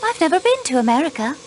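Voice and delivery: a slip into an American accent, quick. Real, not acted. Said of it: "you say it with an American accent".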